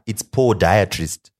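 podiatrist drawn out, with a clear O in the first syllable; stressed O pronunciation. Shown as a demonstration. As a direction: say podiatrist slowly and loudly, sounding the O. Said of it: "There's an O right there".

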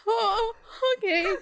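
high, loud, breaking oh okay; exhausted traveller at security, about to cry; teary resignation. Retold or imitated. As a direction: near tears, give in. Told of extra security, near tears.

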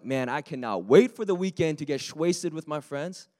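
hammed-up weekend reveller; mock party-goer. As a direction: impersonate a friend itching to party. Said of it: "the stuff that you were like".

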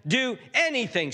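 high, insistent acted begging; pleading. Desperate dad pleading with Jesus for compassion, begging. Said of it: "he's pleading with Jesus".

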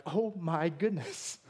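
slow, drawn-out mock shock; aghast. Pharisees reacting to Jesus using his hands, slow mock shock. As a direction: stretch it out as scandalized Pharisees. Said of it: "They're freaking out".

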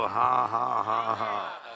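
deliberate, spaced-out ha-ha; acted laughing. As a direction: laugh it out on purpose, word by word. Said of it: "That's why I'm laughing".

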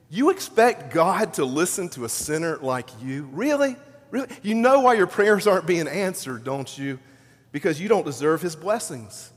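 lightly acted scornful prosecutor, incredulous on the questions; accusing prosecutor. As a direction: needle them like a prosecutor cross-examining a sinner. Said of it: "The prosecutor's voice comes into your prayer life".

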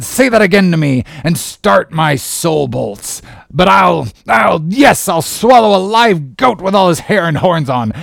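loud, high, furious captain's tirade; thundering rage. A narrator's reading. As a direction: erupt in outrage and keep thundering. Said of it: "As he thundered out this".

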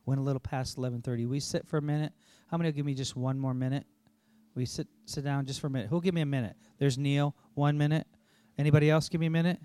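fast auctioneer-style calling for bids. Acted. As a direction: rattle off the minutes like an auction. Rapidly calling for pledged minutes.

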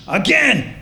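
put-on slow, high German-accented demand; imitated insistent German accent; mock German accent. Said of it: "in her German voice".

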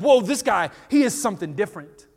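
mock amazement; amazed disciples. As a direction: awestruck realization. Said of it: "they're like".

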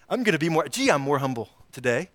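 smug and quick, a lightly mocking tone; a hint of smug arrogance; mock self-satisfied. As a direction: parody a proud man boasting of humility. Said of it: "Well, you know".

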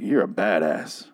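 slow, lightly voiced Negan; a hint of Negan's swagger, slowed; Negan impression. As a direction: drag the line out like Negan. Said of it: "oh, that was a really good impression".

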